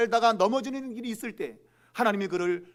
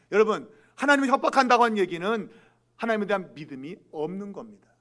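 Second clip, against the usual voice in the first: usual speaking voice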